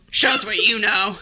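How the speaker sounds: giggling through a mock rant; laughing heckle. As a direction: scoff while laughing.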